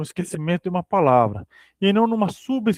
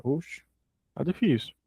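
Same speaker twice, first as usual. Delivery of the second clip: softer, frustrated aside after stumbling; muttered aside; 3 semitones lower, 10 dB quieter than usual. Real, not acted. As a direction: drop out of reading voice, softly to yourself.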